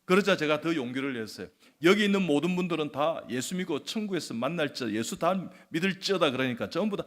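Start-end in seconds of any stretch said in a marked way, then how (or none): 1.8-6.3 bold proclamation. Retold or imitated. Proclaims faith to everyone present.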